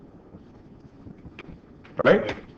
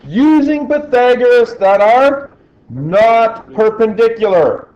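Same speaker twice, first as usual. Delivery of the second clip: frustrated yelling; 5 semitones higher, slower than usual. Real, not acted. Teacher venting to students about a repeated mistake, yelling. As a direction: let the frustration boil over at the class. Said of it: "Why am I yelling? I am mad".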